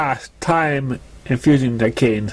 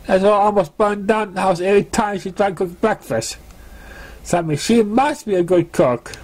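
higher, sheepish filly voice; Scooter making excuses; 7 semitones higher than usual. Acted. Scooter excusing her retreat to Sparkler, higher sheepish voice. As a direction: wriggle out of it with a flattering grin.

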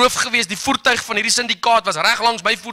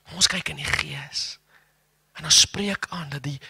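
whisper; 7 semitones lower, 7 dB quieter than usual. Acted. Preacher lowers voice to whisper.

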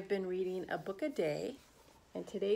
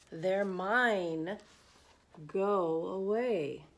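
grumbling; much slower than usual. Acted. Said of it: "but Pig would just grumble".

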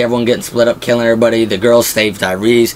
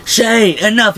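high, slow pleading shout; mock shout; 10 semitones higher, slower than usual. Rick pleading with Shane, high mock shout. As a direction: cry out to stop him.

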